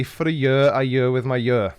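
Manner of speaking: "year" said alike all three times, as a Welsh "yurr"; Welsh pronunciation. Shown as a demonstration. Welshman answers viewer asking how he'd say it, Welsh pronunciation. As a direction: make each "year" the same Welsh word. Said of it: "how would you say".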